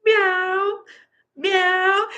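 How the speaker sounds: high, held cat meow; Mittens. Retold or imitated. Owner imitating the cat's meow, high and held. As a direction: mimic a cat meowing on a high rising note. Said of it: "'Cause he goes".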